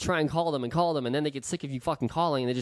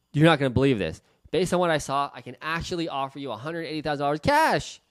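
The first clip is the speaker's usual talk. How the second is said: excited offer. Shown as a demonstration. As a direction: deliver the number like thrilling news. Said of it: "You gotta say it like that".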